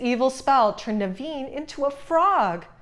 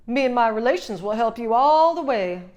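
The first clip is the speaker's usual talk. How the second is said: firefly voice; 5 dB louder than usual. A narrator's reading. Firefly offers help.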